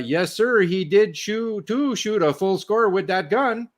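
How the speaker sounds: lightly put-on French accent, drawn out slowly; mock French accent. French range officer vouches for the shooter, in a hammed-up French accent. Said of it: "a French guy in his best Frenglish".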